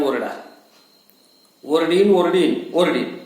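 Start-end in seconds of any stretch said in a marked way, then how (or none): 1.6-3.2 defiant yell. Acted. Defiant husband yelling back.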